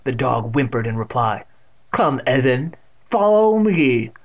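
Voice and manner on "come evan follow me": loud, rising, drawn-out command; impatient old aunt. A narrator's reading. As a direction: summon him impatiently. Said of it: "she said impatiently".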